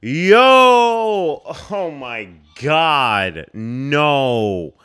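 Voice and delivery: loud, high, drawn-out cry of disbelief; shocked outcry. Real, not acted. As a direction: cry out in horrified protest, stretching each word. Shocked reaction to film scene.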